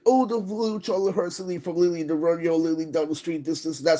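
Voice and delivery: lightly put-on silly voice, dismissive; mocking Lily. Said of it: "Lily, you are like".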